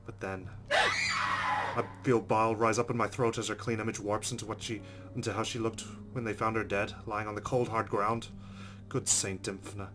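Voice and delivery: rising dread as the vision warps; panicked narration. Acted.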